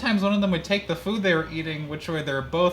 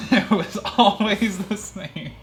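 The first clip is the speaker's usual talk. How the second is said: bored; 5 semitones higher, 5 dB louder than usual. Acted. Mock boredom reading.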